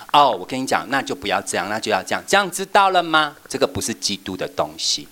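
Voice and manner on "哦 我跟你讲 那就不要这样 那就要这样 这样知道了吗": hasty lecturing teacher. Shown as a demonstration. Teacher brushing off a child's question, bossy and quick. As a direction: rattle off the rules to the kid. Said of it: "你不要小朋友一来你就这样".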